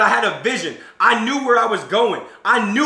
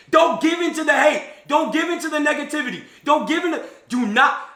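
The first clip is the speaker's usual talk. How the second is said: rallying shout; 8 semitones higher than usual. Real, not acted. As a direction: drive it home to the room. Urging the audience, shouting.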